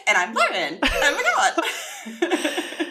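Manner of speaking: high, bouncy cheerleader voice. Retold or imitated. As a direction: pop in like a peppy cheerleader. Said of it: "sounds like a little cheerleader popping in".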